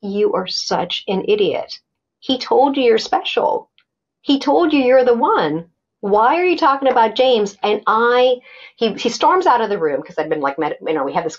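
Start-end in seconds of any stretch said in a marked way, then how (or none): 0.0-7.6 self-scolding. Retold or imitated. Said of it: "I lock into his mood".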